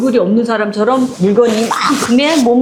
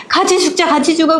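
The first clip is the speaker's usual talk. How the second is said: mother's threat; 6 semitones higher than usual. Retold or imitated. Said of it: "그러면서".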